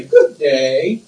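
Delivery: lilting British Virgin Islands greeting, rising at the end; imitated British Virgin Islands sing-song. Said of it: "a sing song".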